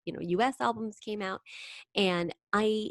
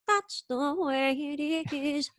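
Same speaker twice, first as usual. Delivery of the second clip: slow, high, stretched French-Canadian lilt; impression of a singer; 9 semitones higher, much slower than usual. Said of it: "or she says it".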